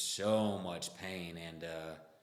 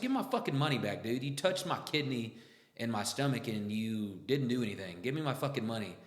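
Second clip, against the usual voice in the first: higher, louder and fast, furious repeat; retold angry yell; 3 semitones higher, 4 dB louder than usual. Insisting to the useless clinic doctor, a furious yell. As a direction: blow up and demand it again.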